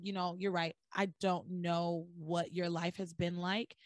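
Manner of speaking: soft, low, conceding; retold apology. Sam apologizing to Ivy, retold softly and low. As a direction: back down gently as if imitating an apology. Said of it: "Sam then apologizes to Ivy".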